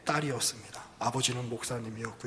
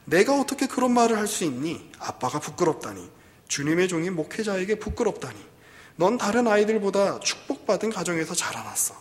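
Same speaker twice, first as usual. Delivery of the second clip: higher, louder acted father remonstrating; reproachful father; 5 semitones higher, 5 dB louder than usual. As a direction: play a dismayed father answering his daughter. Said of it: "아버지가 이렇게 이야기합니다". (딸을 나무라는 아버지 연기)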